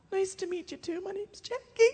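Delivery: high, over-sweet greeting; put-on chirpy little hello; mock-polite introduction. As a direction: pitch it up in exaggerated politeness. Awkward comeback to an abrupt question.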